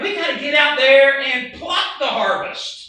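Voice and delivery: loud, urgent call to action; acted rallying cry. Preacher voicing the eager response to a harvest, loud rallying.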